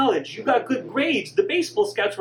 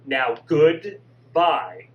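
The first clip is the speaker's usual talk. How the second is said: louder, stern dressing-down of a punk; scolding mother; 4 dB louder than usual. Acted. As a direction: tell him off and hang up. Mother scolds the supposed prankster.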